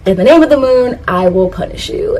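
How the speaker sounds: lightly acted heroine's tagline; Sailor Moon. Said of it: "from Sailor Moon saying".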